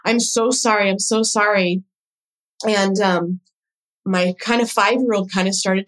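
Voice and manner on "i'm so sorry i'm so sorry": higher-pitched imitated apology; retold repeated pleading. Mother apologizing to her daughter on the phone, retold pleading. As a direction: plead over and over, mildly imploring. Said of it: "she just kept saying".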